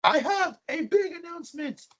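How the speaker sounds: high, hammed-up grand announcement; Legally Blonde quote. Quoting Legally Blonde to his podcast friends, high mock announcement. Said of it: "That was a Legally Blonde reference".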